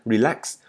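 "Relax" ending in a clear ks hiss; teacher's "Relax" with audible ks. Shown as a demonstration. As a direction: release the final x of "Relax". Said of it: "Các bạn đọc rõ chữ X xì ra nha".

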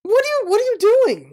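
high-pitched incredulous yell, not full volume; retold yell. Bystander to pedestrians blocking cars, incredulous yell. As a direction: yelp it in outraged disbelief. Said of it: "Like, I yelled".

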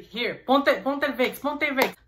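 high, loud insistent order; bossy mom. Retold or imitated. Mom orders her son to put on Vicks, high and insistent. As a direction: press it on him like a fussing mother. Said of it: "She's like".

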